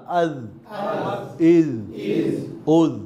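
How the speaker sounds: আজ, ইজ, উজ ending in a thin th-like buzz; thin dhal ending. Shown as a demonstration. Teacher drills the light letter, আজ, ইজ, উজ with thin dhal. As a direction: end আজ, ইজ, উজ lightly, tongue tip out. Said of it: "পাতলা".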